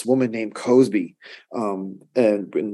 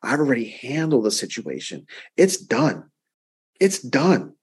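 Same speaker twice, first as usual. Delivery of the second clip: voicing the Lord. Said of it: "the Lord is saying".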